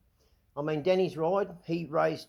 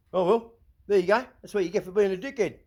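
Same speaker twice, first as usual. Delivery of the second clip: louder, a touch higher, scornful quip; loud mock verdict; 4 semitones higher, 6 dB louder than usual. Vlogger voices what every bloke would say, loud and scornful. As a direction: bark it like a bloke at the pub. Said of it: "would say this".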